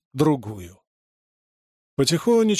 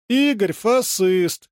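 slow, higher name-calling; taunting shout; 6 semitones higher, much slower than usual. A narrator's reading. Little sister jeering at her brother, slow taunting yell. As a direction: drag out the insult to tease. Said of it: "крикнула Верочка".

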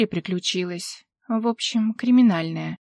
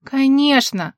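louder, higher burst; exclaimed agreement, louder; exclamation; 4 semitones higher, 5 dB louder, slower than usual. Acted. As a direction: blurt it out emphatically. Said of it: "воскликнула она".

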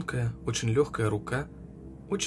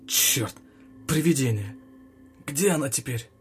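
shouting; 3 semitones higher, 3 dB louder than usual. A narrator's reading. Soldier startled by ghost.

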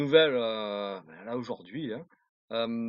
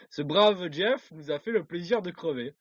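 laughing; 4 semitones higher than usual. Real, not acted. Gloating news, laughing.

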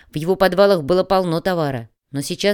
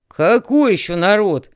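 roaring; 2 semitones higher, 5 dB louder, slower than usual. A narrator's reading. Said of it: "взревел Тимоха".

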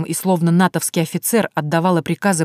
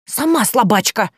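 "Сама слабачка", "Сама" hit hard, higher, slower; snapping back; 5 semitones higher, 4 dB louder than usual. Acted. Vaska retorts, stressing "Сама", "слабачка" higher and slower. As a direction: bark "Сама" back at her, slowly. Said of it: "совсем не нежно рявкнула Васька".

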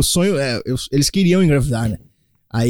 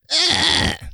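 high, soft hesitant groan; gemido de hesitação; 13 semitones higher, 4 dB quieter than usual. Retold or imitated. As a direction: squeeze out a high, unsure noise. Reage à chegada de dois bebês. (gemido agudo de hesitação)

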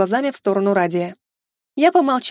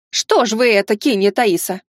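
shrill nagging grandma. Acted. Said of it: "не менее гневно упрекнула".

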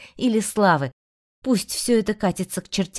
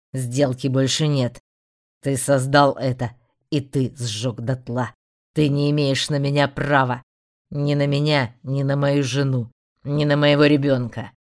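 a touch lower, firm and resolute man; steady defiant warrior voice; lightly voiced defiant hero; 5 semitones lower than usual. Rey defies the demon. (твёрдый голос героя)

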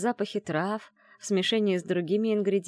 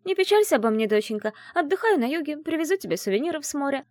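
higher, singsong parody of a carefree mother; mock mother; 10 semitones higher, 4 dB louder, faster than usual. Friend mockingly voices the heroine's mother, higher. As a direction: parody the absent mother's letter. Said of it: "Издеваешься?".

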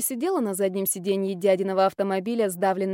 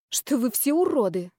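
grumbled; 2 semitones higher than usual. Acted. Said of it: "буркнула я".

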